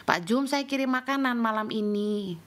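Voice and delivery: considerate offer in an unraised voice; easygoing, caring address; kind, never rough. Retold or imitated. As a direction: tell a worker gently. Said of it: "Saya tidak pernah kasar sama mereka".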